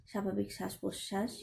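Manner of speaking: calm instructions with long pauses; guided meditation. Acted. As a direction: settle the listeners in, unhurried, phrase by phrase.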